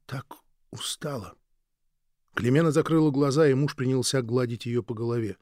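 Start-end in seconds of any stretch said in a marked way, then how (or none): 0.1-1.4 barely voiced, worn out; tired whisper. Weak new mother whispering to her husband, spent. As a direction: breathe it out, exhausted and faint. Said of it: "добавила она".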